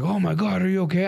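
high-pitched imitation of worried onlookers; imitating concern. Friends to the one who fell, mock concern. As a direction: mimic a group checking on the fallen. Everyone's concern after the accident.

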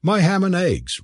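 high-pitched quick answer back; retort. A narrator's reading. Cleric answering Blair's question, retorting. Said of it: "retorted the cleric".

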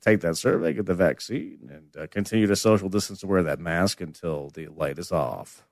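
low, quiet captain over the intercom; pilot announcement. Acted. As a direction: sign off like an airline captain. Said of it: "This is your captain".

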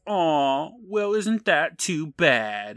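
slow, sneering fake sympathy; mocking. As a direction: taunt the mom slowly. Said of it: "C B says".

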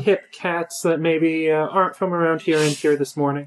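hammed-up Southern accent. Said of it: "I don't know why we're Southern".

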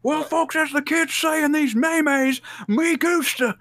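high, hammy commentator; announcer voice. Pretend. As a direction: deliver like a cheesy commentator.

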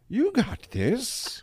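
high, slow cooing reassurance; lightly acted soothing; tender encouragement. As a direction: coo it slowly to a scared friend. Player comforting the turtle in character.

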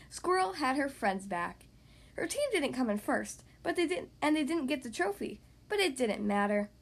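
put-on animated read-aloud to young kids; story narration. Podcast host reading to young kids, story narration. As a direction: read it like a lively picture-book narrator. Reads picture book to children.

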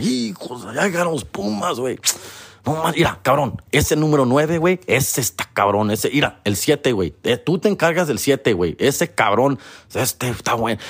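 lightly voiced Mexican coach, hushed at first; a hint of a coach pointing out players; rival team talking. Coach telling players whom to mark, lightly voiced. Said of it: "be like".

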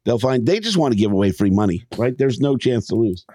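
ordinary talk, nothing marked

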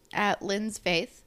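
talking between sips of water; drinking water. Real, not acted. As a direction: read on while drinking water. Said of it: "I'm drinking water".

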